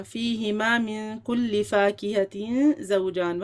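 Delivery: slow, measured Quran recitation; recited verse. Shown as a demonstration. Teacher modelling the verse for students, measured recitation.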